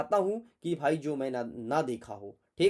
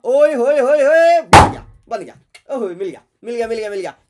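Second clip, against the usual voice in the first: much higher, much louder whoop of triumph; wild whooping celebration, much louder; joyful shout; 7 semitones higher, 15 dB louder than usual. Real, not acted. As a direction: cheer loudly as it all comes together. Finds the word three times.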